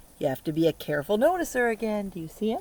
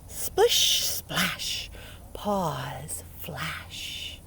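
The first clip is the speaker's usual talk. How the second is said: whispered rhyme; 3 semitones lower, much slower than usual. Shown as a demonstration. Reading the raccoon rhyme to kids, whispered. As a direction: hush it like a secret. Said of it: "Here it says".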